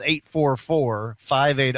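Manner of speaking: slow, spaced-out phone number; measured, deliberate number read. Real, not acted. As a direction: read the digits out slowly. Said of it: "I'll say it slower".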